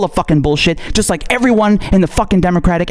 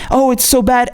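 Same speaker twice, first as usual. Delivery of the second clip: higher, mock-dramatic whine; hammed-up mock lament; mocking her rant; 7 semitones higher than usual. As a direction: parody her fake outrage. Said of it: "ranting about in her videos".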